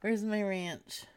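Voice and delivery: whisper. Acted. Whispered ranch.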